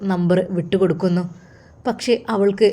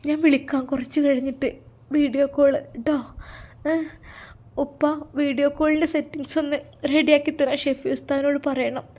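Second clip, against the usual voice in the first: higher-pitched, pleading phone voice; lightly voiced emotional family; 5 semitones higher than usual. Daughter and father long to see each other, emotional. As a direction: talk with longing and apology.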